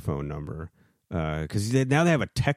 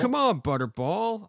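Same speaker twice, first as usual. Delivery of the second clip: exasperated whine; 12 semitones higher than usual. Real, not acted. Call cut off.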